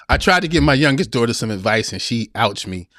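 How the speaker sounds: whispered through stifled laughter; reading a comment while trying not to laugh; suppressed laughter. Real, not acted. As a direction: fight the giggles to get the line out. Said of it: "I gotta calm down so I can read this without joking".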